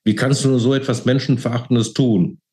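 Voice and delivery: high-pitched, appalled protest; screaming reproach. A narrator's reading. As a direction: accuse your father in distress. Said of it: "schrie sie ihn an".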